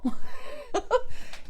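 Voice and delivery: airy high giggle; high breathy laugh. Real, not acted. Mother laughing as husband looks at her, airy giggle. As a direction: giggle in triumph.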